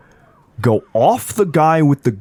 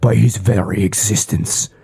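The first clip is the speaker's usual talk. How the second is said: whispering fish creature. Acted.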